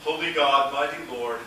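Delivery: ordinary talk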